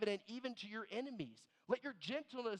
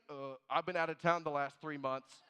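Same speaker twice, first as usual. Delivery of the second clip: sheepish excuse through laughter, getting louder; laughing mock excuse; 8 dB louder than usual. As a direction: fumble an excuse while laughing. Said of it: "And then they say".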